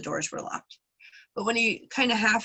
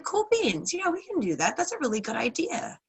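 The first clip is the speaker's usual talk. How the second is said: eager villagers; 7 semitones higher than usual. Retold or imitated. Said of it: "And they're like".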